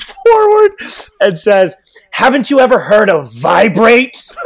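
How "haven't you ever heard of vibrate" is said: put-on old woman. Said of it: "this old woman".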